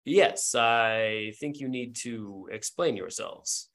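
understated alarm, holding it calm and slow; calmer but alarmed man. Acted. Game master voices a man upstairs, calmer but alarmed. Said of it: "calmer, but, but also, like, alarmed".

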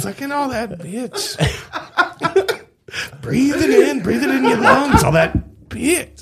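lightly voiced creepy fox; whisper-tease like a creepy creature; Mighty Boosh crack fox. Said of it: "That is the Mighty Boosh".

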